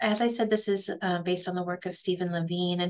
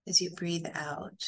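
calm, unhurried guidance with long pauses; guided meditation. Acted. Teacher guiding a group through belly breathing, calm meditation voice. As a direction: lead them gently through each breath, leaving space.

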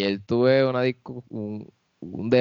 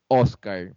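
Oscar with a punched O, ÓS-car; stress on first syllable. Shown as a demonstration. Arguing for the accent mark, Oscar stressed on the O. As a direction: lean on the opening O of Oscar. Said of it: "si lo dicen como".

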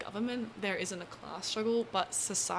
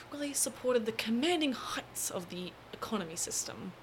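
lightly sarcastic delivery; 2 semitones higher than usual. Real, not acted. Explainer describing the Soviet state to viewers, lightly sarcastic. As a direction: say it with a touch of mock importance. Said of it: "I say really sarcastically".

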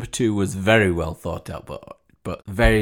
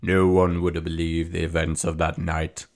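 storybook narrator; 3 semitones lower than usual. Pretend. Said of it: "As he closed the storybook and said".

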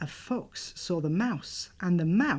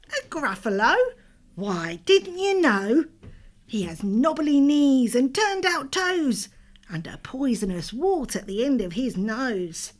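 little mouse voice; 6 semitones higher, 5 dB louder than usual. Acted. Mouse describes the Gruffalo.

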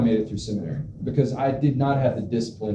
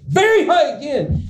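dismayed reading; 13 semitones higher, 4 dB louder than usual. Retold or imitated. Reads scale result in dismay.

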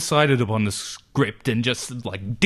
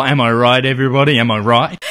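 hype shout; 7 dB louder, much faster than usual. Acted. Hyping the class.

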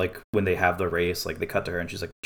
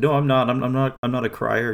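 higher, louder insistent denial; flustered denial; 5 semitones higher, 4 dB louder than usual. Retold or imitated. Liz telling Amy she isn't crying, flustered higher denial. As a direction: protest too much, a touch flustered.

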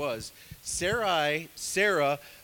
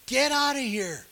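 higher, louder repeat of the order; mock yelling Pharaoh; 10 semitones higher, 6 dB louder than usual. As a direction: shout the order again, harder. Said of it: "I bet there was yelling back then".

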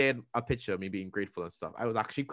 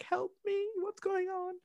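hammed-up squeaky cry for help, much higher; mock panic; 7 dB quieter than usual. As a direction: play a tiny panicking voice.

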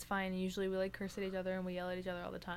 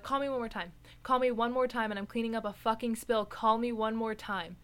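louder and louder furious repeated warning; angry yelling; 3 semitones higher, 8 dB louder than usual. Retold or imitated. Worker yelling at her supervisor for calling her, angry shout. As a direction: yell it at him, fed up. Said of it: "I was so mad".

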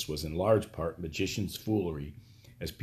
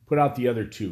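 hoarse; 3 semitones higher, 6 dB louder, faster than usual. Acted. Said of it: "he said hoarsely".

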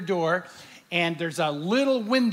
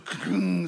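imitated elevator clunk. Elevator comes to a stop in his story, imitated clunk. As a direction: mimic an elevator coming to a stop.

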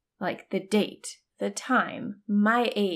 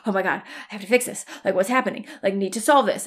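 fast, rising louder panicky voice; fast panicked self-talk, building louder; retold panic; 5 dB louder, faster than usual. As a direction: rush it like you're about to spiral.

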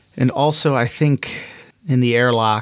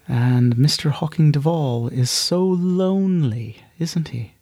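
higher, sly voice that drops to a whisper at the end; teasing inner voice; 4 semitones higher than usual. Acted. Monarch mocking lonely Hawking, ending in a sly whisper. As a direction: needle him, then whisper the last question.

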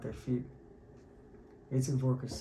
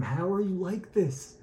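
slow, higher, incredulous question; passionate disbelief; 5 semitones higher, 3 dB louder, slower than usual. Retold or imitated. Fiery rebbe asks his calm friend, passionate disbelief. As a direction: stretch out each word in retold amazement. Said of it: "very, very passionate".

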